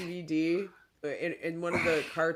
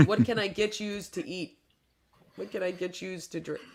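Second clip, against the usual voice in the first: higher imitated northern Michigan server; northern Michigan dialect; 4 semitones higher than usual. Server up north taking an order, northern Michigan accent. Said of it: "they say "yous".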